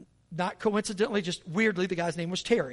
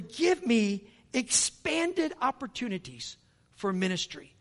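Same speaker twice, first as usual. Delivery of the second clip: slow, lifted pleading prayer to God; fervent prayer; 4 semitones higher, 3 dB louder than usual. Acted. Preacher praying aloud before the church. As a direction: pray it out slowly from the pulpit.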